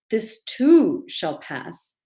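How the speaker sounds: "too" stressed and lifted with a rise, very slow. Shown as a demonstration. Second take of the repeated line, stressing "too". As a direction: hang on "too", drawn out and rising. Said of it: "repeat this four times with an emphasis on a different word".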